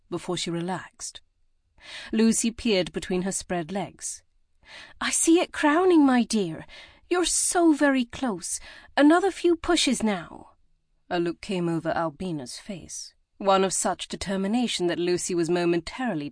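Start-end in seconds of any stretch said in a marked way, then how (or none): 5.0-10.6 encouraging. A narrator's reading. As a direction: drag out each word to push her on. Midwife coaching the birth.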